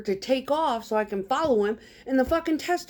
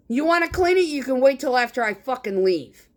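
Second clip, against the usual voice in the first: retold yell; 4 semitones higher than usual. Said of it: "I yell out the window".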